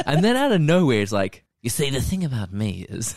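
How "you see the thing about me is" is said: lightly voiced movie villain; a hint of a scheming villain; villainous. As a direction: play at being a smooth villain. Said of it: "he's like, gets all villainous".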